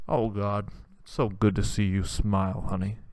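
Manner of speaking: a lightly voiced tender dad.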